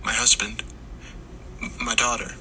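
halting, distressed woman; faltering, tearful mumble; muttered through tears. A narrator's reading. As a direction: force out broken words while crying. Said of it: "managed to pull away long enough to mutter".

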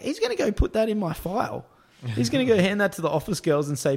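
high-pitched, urgent explanation; retold alarmed insistence. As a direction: imitate spelling out an alarming prediction.

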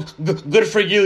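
slow, dripping sarcasm; sarcastic. Real, not acted. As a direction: say it as fake praise. Sarcastic reply to the quoted poster.

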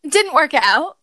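slow laughing line. Real, not acted. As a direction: laugh through it. Laughing while telling.

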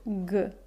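G dicha como "gue", sola; sonido de ge suave. Shown as a demonstration. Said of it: "cuando la H se pronuncia". (sonido "gue" aislado)

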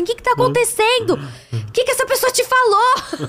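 high-pitched mock alarm, ready to fight; imitated combative boyfriend. Boyfriend demanding who upset her, high mock indignation. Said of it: "já querendo brigar".

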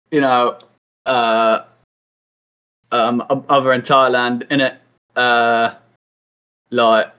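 put-on lightly done British lad accent; a hint of London lad with innit; Alfie impression. Mates greeting in a mild British lad voice. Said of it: "here's my best Alfie impersonation".

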